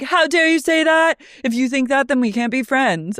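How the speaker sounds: mock indignation. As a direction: play the offended friend. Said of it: "She's like".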